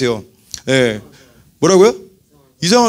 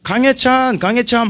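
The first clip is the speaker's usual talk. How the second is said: higher-pitched mock name-calling of an older boy; cheeky little son; 6 semitones higher, slower than usual. Young son cheekily calling an older boy by bare name, lightly imitated. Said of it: "세 살 많은 형한테 선 넘을 때가 있어요".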